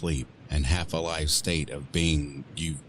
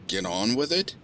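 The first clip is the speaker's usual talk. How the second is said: high rising disbelieving repeat; incredulous echo; 8 semitones higher than usual. Acted. Woman echoing the demon's request in disbelief, rising. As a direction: repeat his words in disbelief.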